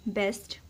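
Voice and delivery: बेस्ट said carefully with a clear st at the end; example word said slowly. Shown as a demonstration. Teacher demonstrating a word for shorthand students, careful and clear. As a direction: pronounce बेस्ट for the class. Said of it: "पास्ट और बेस्ट हमने एसटी की loop के साथ बनाया".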